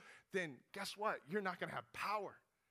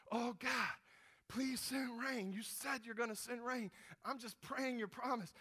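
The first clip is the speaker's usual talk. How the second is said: pleading prayer; 5 semitones higher than usual. Retold or imitated. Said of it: "So Elijah prays some more".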